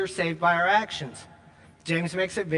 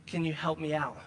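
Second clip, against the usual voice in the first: softer, pleading ask at the door; hungry stranger pleading; 6 dB quieter than usual. Retold or imitated. Starving stranger at the door begs the giver, softly pleading. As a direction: beg quietly for a little food.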